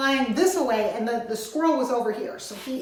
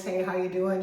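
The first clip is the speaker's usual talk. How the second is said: gently calm tone to a delivery driver; calm greeting; 4 semitones lower than usual. Retold or imitated. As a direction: keep it low and soothing, for the squirrel's sake. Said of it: "talking to him in a real calm voice".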